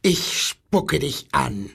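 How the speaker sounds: slow, understated llama screech; lightly voiced llama, drawn out. A narrator's reading. Llama threatens the boy, mild slow screech. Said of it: "kreischte das Lama".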